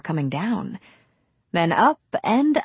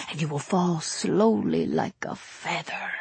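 put-on suitor's voice, dropping softer; intense protest; 5 dB quieter than usual. A narrator's reading. Young Latin suitor promising Nicole, protest softening. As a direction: ease down from the protest, still ardent. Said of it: "Marmora protested intensely".

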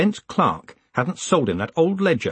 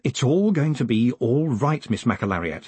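calm her down gently; soothingly. Acted. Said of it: "he said soothingly".

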